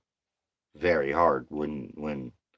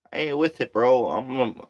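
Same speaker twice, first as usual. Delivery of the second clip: higher and sharper, fed up; fed-up coworker rant, higher and angry; sudden flare of anger; 8 semitones higher, 3 dB louder than usual. Real, not acted. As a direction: snap that you won't stand for it. Sudden outburst about rude coworkers.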